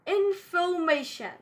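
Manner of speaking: "information" with no R after the O; silent R. Shown as a demonstration. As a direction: drop the R in "information", British style. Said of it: "we won't pronounce R".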